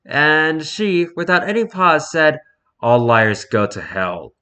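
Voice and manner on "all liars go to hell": stern pronouncement. Acted. Stern customer's verdict acted out.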